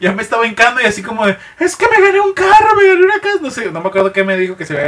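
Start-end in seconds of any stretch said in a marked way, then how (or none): 1.6-3.4 high, lightly voiced delighted lady; mock falsetto glee; excited lady. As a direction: gush it like the winner. Lady quoted explaining win.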